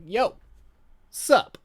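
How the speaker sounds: high, breezy mock greeting; casual vampire greeting. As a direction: toss off a careless hello mid-gore. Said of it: "as she's like".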